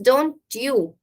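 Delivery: demonstrated tag "don't you"; rising intonation. Shown as a demonstration. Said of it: "will use rising intonation".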